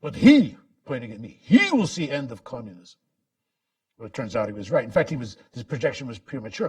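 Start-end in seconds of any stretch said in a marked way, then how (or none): 0.0-0.6 higher, louder imitation of a Russian accent; mock Russian accent, raised and emphatic; thick Russian accent. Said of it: "in his thick Russian accent". 1.4-3.0 lightly voiced Russian accent; a hint of a Russian exile's prophecy; understated Russian accent imitation; thick Russian accent. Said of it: "in his thick Russian accent".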